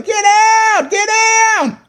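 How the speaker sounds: high panicked shout to hit the floor; retold panicked yell. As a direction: yell at everyone to get down. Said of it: "I'm yelling".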